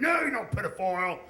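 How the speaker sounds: put-on big oafish local denying it in Australian accent; imitated indignant Australian; Hodor. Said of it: "And Hodor goes".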